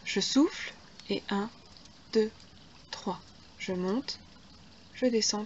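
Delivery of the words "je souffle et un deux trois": counting workout reps. Shown as a demonstration. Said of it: "trois temps pour descendre".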